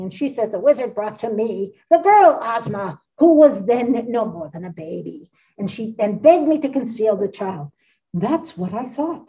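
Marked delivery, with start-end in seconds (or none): 0.5-7.7 lightly voiced old witch; a hint of a scheming old witch confessing; faint witchy storyteller voice; Mombi's voice. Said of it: "so this is Mombi speaking". 8.1-9.3 calm. Acted. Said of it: "declared Glinda calmly".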